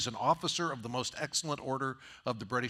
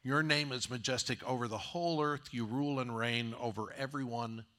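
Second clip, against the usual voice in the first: earnest praise. Retold or imitated. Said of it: "And, and David says".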